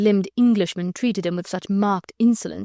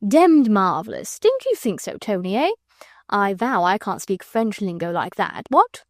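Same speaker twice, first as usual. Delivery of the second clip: imperturbable fop. Acted. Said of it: "continued Sir Percy imperturbably".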